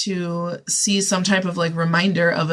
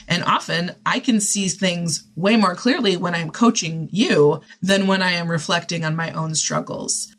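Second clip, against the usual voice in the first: ordinary delivery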